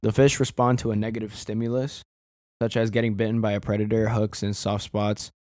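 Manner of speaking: understated read-out of an online answer; reading aloud. Real, not acted. Reading a Reddit answer on fish pain, reading aloud. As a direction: read it off the screen, evenly and plainly.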